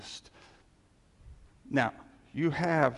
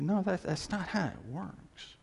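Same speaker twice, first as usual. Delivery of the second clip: mock-dismissive brush-off, lightly sarcastic; a touch of sarcasm in a quoted rebuke; 3 semitones higher, 4 dB quieter than usual. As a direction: say it with a dry sarcastic edge. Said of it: "hear my sarcasm there".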